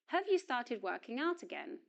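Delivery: "Have" unstressed, with a reduced schwa vowel; weak form of have. Shown as a demonstration. Teacher models the question for learners, weak "Have". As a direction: glide lightly over "Have" into the question. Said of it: "auxiliary verb have does not receive stress".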